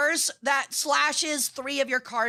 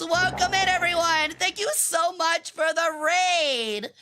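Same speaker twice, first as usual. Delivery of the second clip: high bubbly welcome; cute anime streamer; 4 semitones higher than usual. Acted. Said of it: "I'm an Egyptian peregrine sun goddess".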